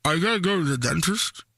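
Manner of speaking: talking through a full mouth; words muffled by a mouthful. Pretend. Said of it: "I have stuff in my mouth".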